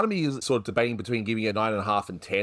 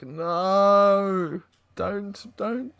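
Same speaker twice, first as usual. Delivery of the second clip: imitating Manny; 10 semitones higher, much slower than usual. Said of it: "And Manny's like".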